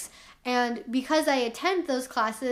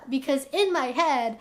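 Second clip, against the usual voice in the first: usual speaking voice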